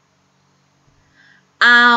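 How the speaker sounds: เอา stretched very long and clear; teacher stretching เอา for pupils; drawn-out vowel. Shown as a demonstration. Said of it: "พูดตามคุณครูนะคะ".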